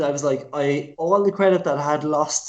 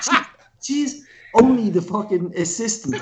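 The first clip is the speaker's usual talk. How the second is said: jeez jeez through laughter, pitched up; laughing quote; 3 semitones higher than usual. Retold or imitated. Friend retelling the dying designer's line, laughing. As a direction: giggle through the panicked line. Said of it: "he's like".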